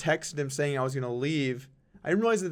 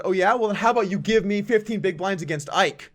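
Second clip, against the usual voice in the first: loud, high-pitched angry challenge; angry yelling; 6 semitones higher, 7 dB louder than usual. Retold or imitated. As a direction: imitate someone yelling a furious challenge. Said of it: "he just starts yelling at us".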